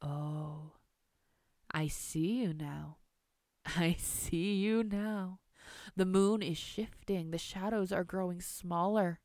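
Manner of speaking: slow, drawn-out villain voice; veiled moonlight horror, taunting. Acted. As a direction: toy with your hidden prey, slowly. Veiled Missus Moonlight taunts hidden girl.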